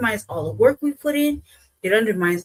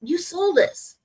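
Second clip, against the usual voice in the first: ordinary talk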